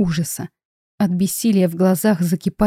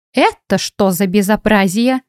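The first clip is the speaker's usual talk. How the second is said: put-on slow, grumbling old woman voice; grumpy old ghost; 2 semitones higher than usual. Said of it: "Ворчливый голос старой". (ворчливый голос старой привидения)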